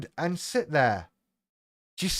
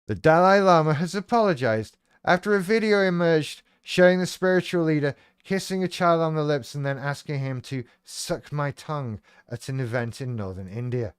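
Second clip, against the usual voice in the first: reading the headline aloud; news read. Acted. Host reading the news story to viewers, news read.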